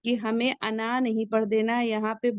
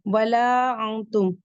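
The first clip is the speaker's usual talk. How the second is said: slow, drawn-out recitation of the verse; Quran recitation; 4 dB louder, much slower than usual. Shown as a demonstration. Teacher recites the next verse slowly for students, drawn out. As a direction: chant each syllable slowly. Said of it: "next आयत चलिए".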